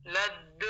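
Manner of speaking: لد with a distinct released dal; clear final dal. Shown as a demonstration. Teacher isolating the dal ending. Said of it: "کہنا ہے".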